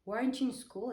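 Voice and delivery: mildly angry retold demand; furious father. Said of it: "And he was furious".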